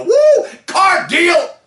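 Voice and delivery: the customer catching the fever and yelling back; hyped customer. Retold or imitated. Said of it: "They go".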